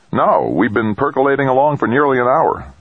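high, cheery chirp; breezy, high-pitched cheerfulness; happy chirp. A narrator's reading. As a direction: chirp it happily, pitched well up. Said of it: "Dex chirped happily".

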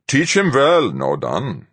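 high, loud stern commander; stern captain voice. A narrator's reading. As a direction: order it like a gruff captain. Fuchs instructs.

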